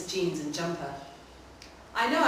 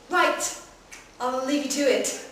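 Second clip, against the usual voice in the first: a brisk fatherly "Right", higher and louder; sounding like dad; 7 semitones higher, 5 dB louder than usual. Acted. Boy leaving the stranger to bathe, fatherly brisk. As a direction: clear his throat and play the dad. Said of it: "This time I sound like my father".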